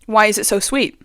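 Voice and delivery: asked softly to herself; quiet first take before the outburst; muttered complaint. Real, not acted.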